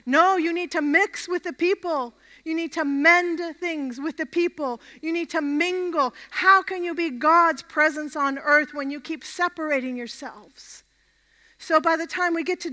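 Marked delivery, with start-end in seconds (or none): 0.0-10.8 prophetic voice. Acted. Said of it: "the prophetic voice that says".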